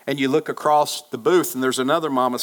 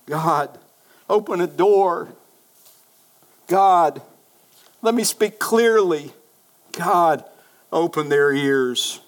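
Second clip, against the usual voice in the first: raised, pleading cry to God; fervent prayer; slower than usual. Retold or imitated. Preacher asking God for an open door, fervent pleading. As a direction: call on God with fervor.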